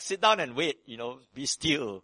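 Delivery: a hint of a preacher telling them to sit; mock message. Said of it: "It's like".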